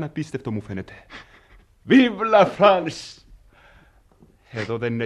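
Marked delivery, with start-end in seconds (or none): 1.9-3.2 very slow, loud, drawn-out cheer; loud triumphant cheer; exultant cry. Acted. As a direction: proclaim it like a toast. Servant exults about Paris.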